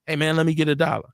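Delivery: hushed, breathy-free half-voiced plea; mock street hustler asking for change. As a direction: lean in and ask low for a dollar. Acting out the door opener.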